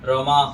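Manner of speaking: रमाह with short "ho" at the end; common mispronunciation. Shown as a demonstration. Teacher imitates people's mistake, रमाह ending in short "ho". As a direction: round and shorten the last vowel of रमाह. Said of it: "लोग गलत उच्चारण कर लेते हैं".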